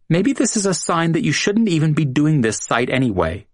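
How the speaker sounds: high, mild whimper; a hint of a whimper, pitched high. A narrator's reading. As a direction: Julia pleading on the floor, lightly whimpering. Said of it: "Julia whimpered".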